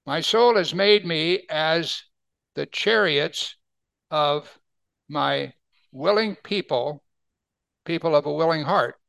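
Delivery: slow, measured reading of the verse; scripture reading. Acted. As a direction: read the verse slowly and reverently. Reads scripture verse slowly.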